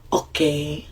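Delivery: put-on soft, low calming voice to the child; demonstrating a low, soft calming voice; low soothing tone. Shown as a demonstration. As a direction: settle the upset child gently and low. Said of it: "Pakai nada rendah".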